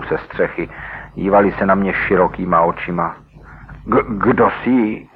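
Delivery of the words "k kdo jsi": slow, halting stutter from fright; stammered. Acted. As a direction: stammer it out, startled and scared. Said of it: "vykoktal jeden". (vyděšeně vykoktá: K-, kdo jsi?)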